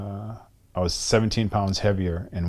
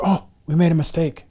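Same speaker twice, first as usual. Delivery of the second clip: mock official correction; 9 semitones higher, 4 dB louder than usual. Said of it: "a person gets ranked number two".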